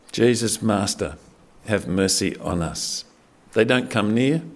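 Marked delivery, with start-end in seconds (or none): 0.1-3.0 a quiet, drawn-out beg for mercy; understated desperate begging; desperate plea. Retold or imitated. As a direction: lower and softer, slowed, pleading. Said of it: "they just cry out for help".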